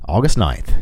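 hushed whisper. Real, not acted. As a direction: say it under your breath. Whispered date.

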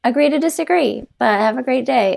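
mock-serene politeness. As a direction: play someone calmly refusing to react. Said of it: "I wish I had not reacted".

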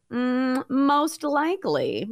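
slow, drawn-out fortune teller; mystic oracle voice. Pretend. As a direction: intone it like an oracle. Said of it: "Time for a little sorcery".

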